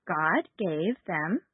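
put-on slow, patient lead for children to repeat; sweet patient sunday school. Shown as a demonstration. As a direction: say it slowly so kids can follow. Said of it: "Let's try it together".

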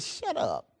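low, soft command; understated, dropped-voice order; quiet rebuke. Acted. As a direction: hush the storm with quiet authority. Jesus rebukes the storm on waking.

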